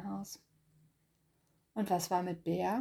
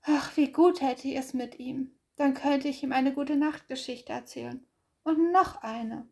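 a bit higher, longing; lightly voiced wistful hare; 5 semitones higher, 3 dB louder than usual. Hase longs for Bär, gently higher. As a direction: dream aloud, slowing at the end.

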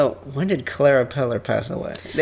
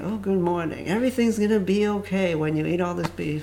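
fake wholesome; 2 semitones higher, 4 dB quieter than usual. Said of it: "morning radio guy, like, saying".

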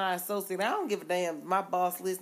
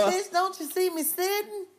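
mock snap; 10 semitones higher than usual. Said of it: "retorts to customer".

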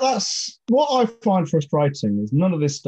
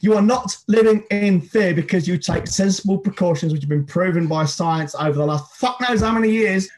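ranting anger. Real, not acted. Host's one-minute hate on anti-maskers, furious. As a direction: spit it out like a timed rant. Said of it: "the one minute hate".

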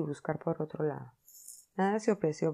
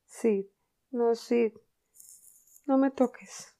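higher, louder fake suffering; mock pained plea; 6 semitones higher, 5 dB louder, slower than usual. Tom faking pain to fool his brother, hammed-up. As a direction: whine like you're in agony.

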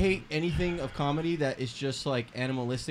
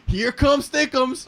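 loud, high, drawn-out holler; screamed catchphrase; 9 semitones higher, 5 dB louder, much slower than usual. Shown as a demonstration. Showing friends how to go viral in a store, screaming. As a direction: holler it slowly, pitched way up. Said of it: "start screaming".

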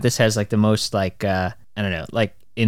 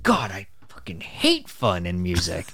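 slow, drawn-out grumble; retold exasperation; 2 semitones lower, slower than usual. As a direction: groan it out with mock hatred. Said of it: "where I'm always like".

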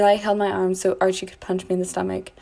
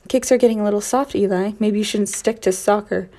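growled taunt; 4 dB louder than usual. Acted. Narrator taunting the bully, a loud mocking growl. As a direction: growl the jab at him. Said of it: "I growled".

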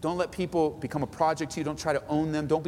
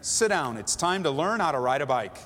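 higher, step-by-step commanding instruction; take-charge leader; 5 semitones higher than usual. Shown as a demonstration. Pastor voicing a leader instructing Mary, commanding. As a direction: lay out the steps in order. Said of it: "might say".

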